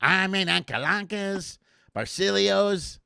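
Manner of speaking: slow, drawn-out mock Italian names. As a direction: lightly roll the names like an Italian. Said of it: "you know all the names".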